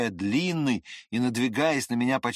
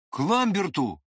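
sharp question; 6 semitones higher than usual. A narrator's reading. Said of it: "резко спросил меня вдруг Длинный".

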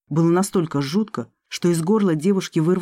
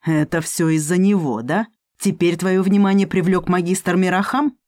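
growled; 3 dB louder than usual. Acted. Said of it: "он прорычал".

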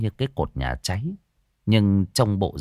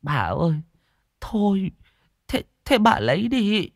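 reluctant giving in; 9 semitones higher than usual. A narrator's reading. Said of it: "cực chẳng đã đành gọi".

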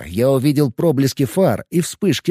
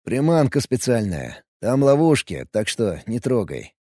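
unruffled calm; 3 dB quieter than usual. Acted. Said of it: "невозмутимо ответил я".

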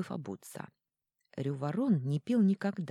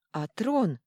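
loud call through the door; shouting; 5 semitones higher, 6 dB louder than usual. Acted. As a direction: call his name sharply. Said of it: "крикнула герцогиня сквозь двери".

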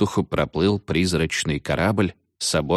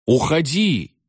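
panicked shriek; 9 semitones higher, slower than usual. A narrator's reading. Veniamin screaming at witch.

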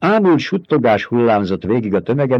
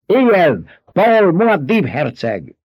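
higher, louder cry of allegiance; shouted; 9 semitones higher, 4 dB louder, slower than usual. A narrator's reading. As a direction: call it out to the whole cave. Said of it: "kiáltotta". (Stilgár a tömeg előtt kiáltja)

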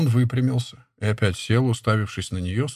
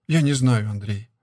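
guilty admission. Acted. Nastyona turns to Andrey for help, guilty and fading. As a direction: confess it helplessly, voice dropping away. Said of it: "виновато добавила она".

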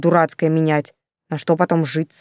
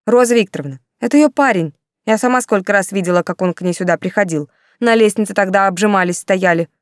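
eager tattling; 2 semitones higher than usual. Acted. Olya informing on Yulka.

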